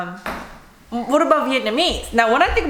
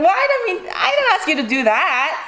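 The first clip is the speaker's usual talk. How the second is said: higher, laughing mock innocence; laughing high protest; 8 semitones higher than usual. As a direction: protest through laughter, pitched up. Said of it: "I was like".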